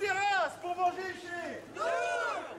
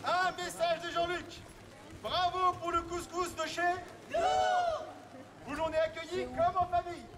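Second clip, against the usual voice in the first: town crier; 4 semitones higher, slower than usual. Acted. Town crier reads message aloud.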